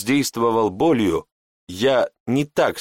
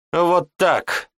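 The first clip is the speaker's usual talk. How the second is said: higher smug triumph; 8 semitones higher than usual. Acted. Mage satisfied after forcing obedience. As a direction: savour the win.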